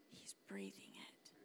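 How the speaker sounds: very soft, breaking into whisper; hushed. Real, not acted. Tender hush about dad in heaven.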